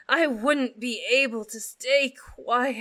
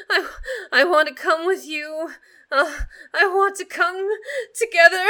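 breathless pleading; 2 semitones higher, 4 dB louder, faster than usual. Acted. Pleading near climax.

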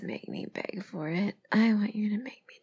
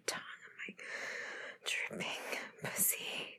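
very soft whisper; intimate whisper; 10 dB quieter than usual. Pretend. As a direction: drop to a hushed, private whisper. Intimate roleplay.

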